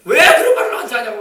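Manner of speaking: imitating a loud angry reply, half laughing; mock angry retort. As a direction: play the angry person, amused. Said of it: "막 화를 내잖아요". (화내는 사람 흉내)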